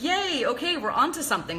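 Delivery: high, bright yay of discovery; retold delight. Recalling her glee at being triggered, excited high yay. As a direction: squeal it like you found a clue. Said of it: "I was like".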